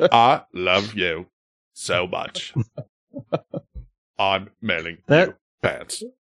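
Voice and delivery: slow, deep, drawn-out low voice. Repeating the pants letter line: Forrest Gump voice. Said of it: "Are you Forrest Gump now?".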